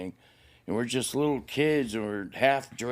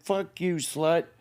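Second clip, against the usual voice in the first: higher-pitched angry comeback, retold; retold defiant retort; 5 semitones higher, slower than usual. Fleeing boy to his mother, retold defiant anger. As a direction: throw the insult back, half-shouted.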